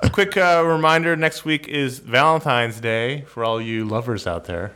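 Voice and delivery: slow, smooth DJ delivery; radio announcer voice. Pretend. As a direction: read it like a late-night radio host. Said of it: "will you just start talking like a radio guy".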